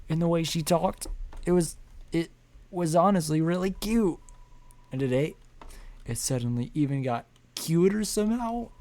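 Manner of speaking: high, loud whiny lament to his little buddy; sad loser character. Acted. Voices dejected game character.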